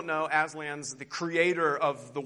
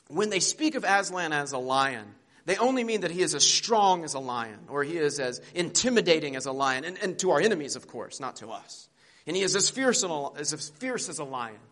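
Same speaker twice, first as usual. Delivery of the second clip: voicing Bree, a touch proud; 3 dB louder than usual. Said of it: "here's what Bree says".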